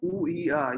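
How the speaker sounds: high-pitched mock moan of a patient; imitated sick moan.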